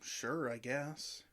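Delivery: defeated mumble. Acted.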